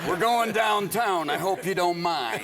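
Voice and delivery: slow, lightly voiced menacing drawl; a hint of a sly Nicholson; Jack Nicholson. Retelling Jack Nicholson's invite, lightly imitated and slow. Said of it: "Jack Nicholson came over and said".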